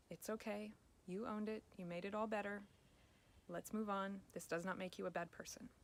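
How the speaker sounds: calm, kind reassurance to yourself; gentle self-talk. Shown as a demonstration. Coach shows the new groove of self-talk: calmly kind. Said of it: "Stop yourself, pick up the needle".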